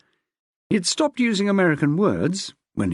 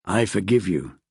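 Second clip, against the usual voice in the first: low, mock-gracious man's voice; deep indulgent forgiveness; husband voice; 8 semitones lower than usual. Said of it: "he said".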